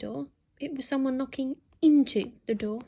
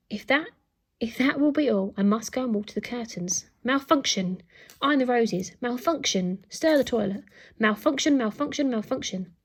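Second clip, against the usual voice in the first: posh robot voice; 3 dB louder than usual. Acted. Robot butler glitching.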